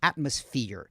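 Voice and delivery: "Atmosphere" with the first syllable punched; stress on first syllable. Shown as a demonstration. Teacher showing students where the tonic syllable is, first-syllable stress on "Atmosphere". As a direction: hit the AT in "Atmosphere", let the rest fall. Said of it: "a sílaba tônica tá na primeira sílaba".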